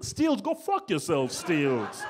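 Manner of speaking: mock disgust at a far-off suburb; hammed-up indignant rejection; mock outrage. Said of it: "talking to a girl like".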